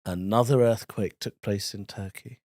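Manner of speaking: news read. Shown as a demonstration.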